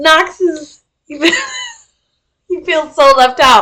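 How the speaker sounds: talking through laughter. Interrupting game narration to talk about the cat: laughing while talking. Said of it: "I'm laughing at the cat".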